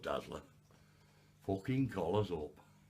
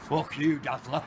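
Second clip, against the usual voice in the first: louder shout of abuse; angry yell; 5 semitones higher, 11 dB louder than usual. Real, not acted. The man yells abuse at Dazzler. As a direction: throw the curse at him. Yelling at the creature.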